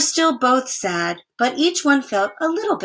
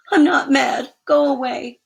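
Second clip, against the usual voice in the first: louder, hurt, a touch cross; upset pushing away; 5 semitones higher, 6 dB louder than usual. Acted. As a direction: tell him to leave, barely holding it together. Stanley hurt, pushing brother away.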